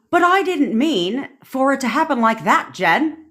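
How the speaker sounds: high-pitched put-on UK accent. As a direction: imitate a friend's protest in a UK accent. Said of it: "That was my U K accent".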